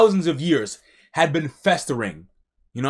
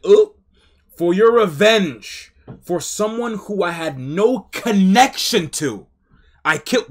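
mocking her; 4 semitones higher, 4 dB louder than usual. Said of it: "She's like".

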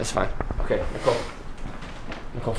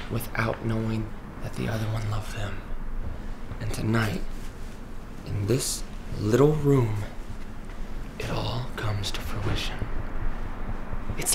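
dramatic whisper; 2 semitones lower, 6 dB quieter than usual. Real, not acted. Dramatic hushed scene description.

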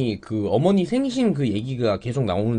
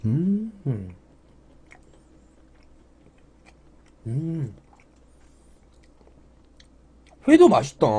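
speaking between bites; talking while chewing; 5 semitones higher than usual. Real, not acted. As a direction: mouth partly full. Seen 1: Fish put in mouth at -7; jaw still working early on, then talking.

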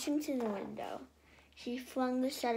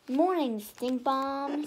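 cheerful greeting; 3 semitones higher, 7 dB louder, slower than usual. A narrator's reading. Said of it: "said the girl cheerfully".

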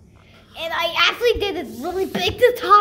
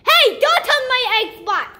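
scolding shout; 5 semitones higher, 4 dB louder than usual. Real, not acted. Balloon heads for the Xbox.

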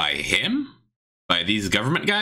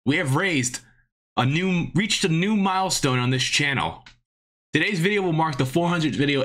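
announcing big news; 8 semitones higher than usual. Real, not acted. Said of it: "we have an announcement to make".

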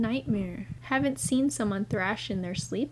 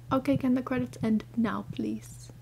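scared whisper. Real, not acted.

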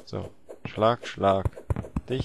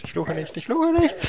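building shout. Acted. Rising repeated denial.

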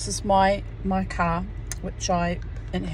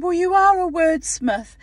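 high, loud imitation of delight; pleased doctor; 11 semitones higher, 7 dB louder than usual. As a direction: exclaim it as the impressed doctor. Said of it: "my doctor was quite pleased".

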